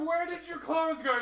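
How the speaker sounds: high, loud, incredulous question; baffled yell. Retold or imitated. Asking undressed friend about clothes, incredulous yell. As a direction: demand it in loud disbelief.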